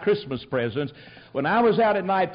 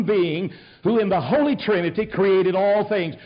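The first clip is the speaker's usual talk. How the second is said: a touch raised, earnest preaching; 3 semitones higher than usual. Acted. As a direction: plead guilty like a preacher. Preacher testifies to his faith.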